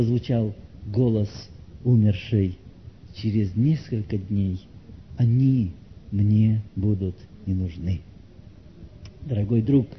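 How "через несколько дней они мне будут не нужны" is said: dead woman's remembered voice. Acted. Brother recalls the dead director's words, grave and subdued.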